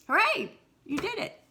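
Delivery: high, loud hooray; cheering. Real, not acted. Teacher cheers the kids for getting it right, excited. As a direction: celebrate like they won.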